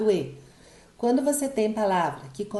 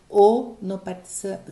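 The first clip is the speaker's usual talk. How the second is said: usual speaking voice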